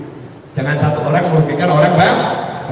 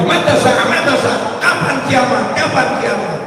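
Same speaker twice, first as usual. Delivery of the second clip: villager yelling again; 5 semitones higher than usual. Retold or imitated. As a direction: call out impatiently over the crowd.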